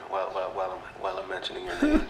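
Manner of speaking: mocking stammer. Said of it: "like that".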